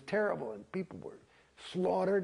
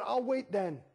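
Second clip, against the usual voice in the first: defiant retort; 5 semitones higher than usual. Retold or imitated. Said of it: "I said".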